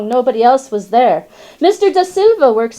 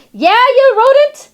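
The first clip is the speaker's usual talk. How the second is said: angry dog. Retold or imitated. Dog shouting up at the squirrel on the cage. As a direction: bark it up at the squirrel. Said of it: "and he goes".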